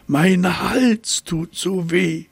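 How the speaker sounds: high, slow, drawn-out whimper of a sore giraffe; whiny giraffe. A narrator's reading. Giraffe complaining to herself about her sore neck, whining. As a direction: moan it like a self-pitying giraffe. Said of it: "jammerte sie".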